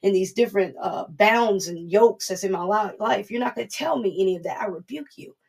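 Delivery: firm, defiant rebuke; mock spiritual warfare declaration; rebuking the enemy. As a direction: stand your ground and tell the enemy off. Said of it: "start telling the enemy".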